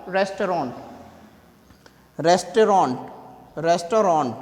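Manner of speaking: रेस्टोरेंट with every syllable full; रेस्टोरेंट as "res-to-rent"; wrong restaurant. Shown as a demonstration. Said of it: "इसे रेस्टोरेंट नहीं बोलना". (restaurant का गलत उच्चारण)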